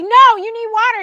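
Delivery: high, loud retold order; imitating a man who won't be refused; urgent insistence. Retells John insisting again.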